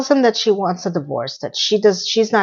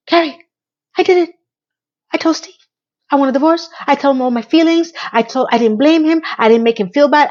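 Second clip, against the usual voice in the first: excited Miranda; 5 semitones higher than usual. Retold or imitated. Miranda voiced excited on phone.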